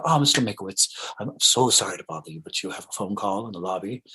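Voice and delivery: lightly acted fretful maitre d'; a little frantic, apologetic. Maitre d' interrupting Mankiewicz for a phone call, apologetically frantic. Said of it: "kind of a little frantic".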